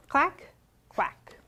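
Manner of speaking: whispered fading quack. A narrator's reading. Fading refrain.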